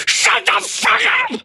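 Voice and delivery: high, slow strained gangster scream; imitated screaming. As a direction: scream it like a psychopath losing it. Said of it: "He's just screaming".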